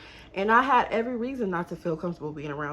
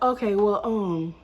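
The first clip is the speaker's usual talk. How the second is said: put-on a light take on the boyfriend's lazy talk; imitating her boyfriend. Telling friends how her boyfriend talked, lightly imitating him. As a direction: mimic how he sounds, only lightly. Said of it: "oh, why am I talking like that? 'Cause that's how he sounds".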